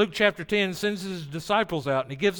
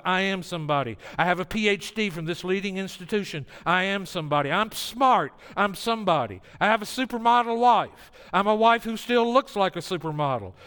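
mock boast; 2 semitones higher than usual. Preacher mocking a bragging professional, lightly hammed. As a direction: puff up like a proud climber. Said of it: "Don't say".

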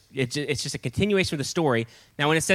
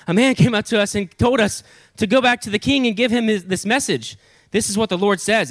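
higher-pitched, hurried messenger report, lightly winded; imagined breathlessness; 6 semitones higher than usual. Acted. Messengers reporting back to the king, mock breathless. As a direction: act slightly out of breath, pitched up. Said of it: "imagine them kind of being out of breath".

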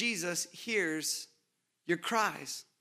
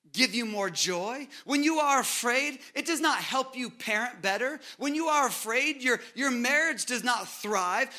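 preaching refrain; 3 semitones higher than usual. Acted. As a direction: hammer the refrain home like a pulpit build. Preacher builds repeated refrain.

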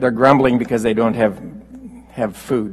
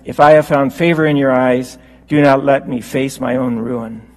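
raised, louder, exasperated complaint; grumbling Moses; 4 dB louder than usual. Retold or imitated. Moses pouring out his complaint to God, raised and exasperated. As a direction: plead like a worn-out leader at the end of his rope. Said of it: "but Moses is grumbling".

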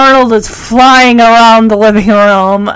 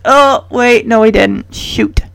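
let down; 2 semitones lower, 3 dB quieter than usual. Retold or imitated. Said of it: "I was fooled at first".

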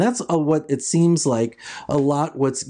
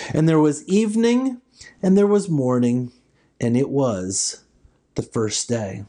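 scripture reading. Acted. Reads Genesis one aloud.

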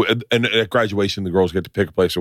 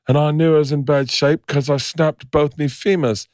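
higher-pitched rough Irish-Scottish storyteller; Irish-Scottish accent; 6 semitones higher than usual. Retold or imitated. Crash survivor describes his injuries, Irish-Scottish accent. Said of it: "I don't know what accent I'm doing".

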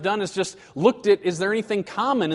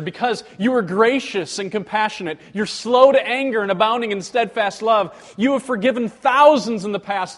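louder fervent appeal to God; 3 semitones higher, 5 dB louder than usual. Shown as a demonstration. Preacher voicing the prayer's reason, fervent and louder. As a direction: press God with his mercy.

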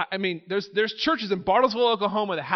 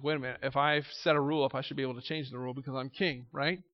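the king musing; 5 semitones lower, 6 dB quieter, faster than usual. Retold or imitated.

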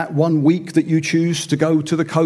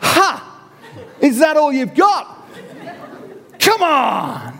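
higher, louder mocking shout at the sea; loud taunt; 7 semitones higher, slower than usual. Father taunting the waves alone, loud mocking shout. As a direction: taunt the weather, laughing. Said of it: "I'll say, quite loudly".

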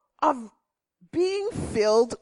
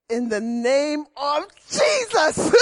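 commanding rebuke; 3 semitones higher than usual. Retold or imitated. Woman facing a spider, shouting Jesus' name. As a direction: rebuke the bug with authority. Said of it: "I would say".

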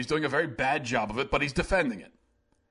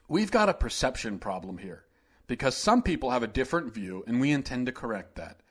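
lightly lowered, subdued politician drone; a hint of a dull, evasive governor reading a statement; Mike Pence impression; 4 semitones lower, 3 dB quieter than usual. Mocking the governor reading his press statement, lightly lowered drone. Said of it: "this is my Mike Pence impression".

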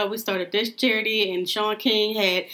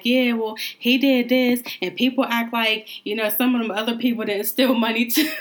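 mocking wife's excuses; 3 semitones higher, 3 dB louder than usual. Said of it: "it was basically saying".

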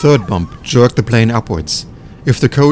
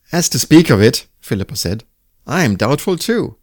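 doubtful woman; 4 semitones higher than usual. Acted. Philippa voiced doubtful.

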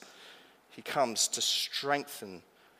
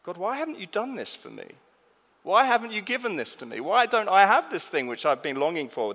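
imitating a frustrated prayer; 5 semitones higher, 4 dB louder than usual. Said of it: "relate to the sentiment behind it".

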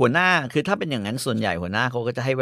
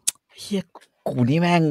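shocked self-reproach. Retold or imitated. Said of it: "คือผมแบบ".

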